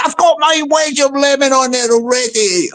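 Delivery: a different gruff male voice for the troll; mock troll bragging. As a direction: put on the troll's voice. Voicing Mister Troll.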